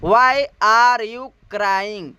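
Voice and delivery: very slow, every word separate; slow example. Shown as a demonstration. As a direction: model the sentence slowly. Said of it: "इस तरीके से बोलना है".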